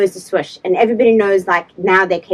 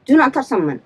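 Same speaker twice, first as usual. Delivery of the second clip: retold firm telling-off, a touch raised; indignant telling-off. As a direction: lay down the law, mildly heated. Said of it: "my voice is getting high, higher and higher, louder and louder".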